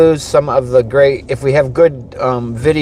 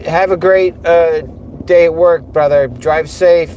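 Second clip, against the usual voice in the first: calling out; 4 semitones higher than usual. Real, not acted. Calling out to passing friend.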